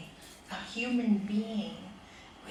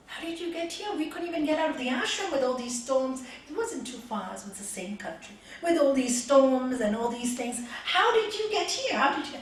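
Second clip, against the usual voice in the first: astonished disciples; 2 semitones higher, 7 dB louder than usual. Retold or imitated. Shocked disciples confronting the newcomer, amazed and louder. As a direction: pile on the disbelief.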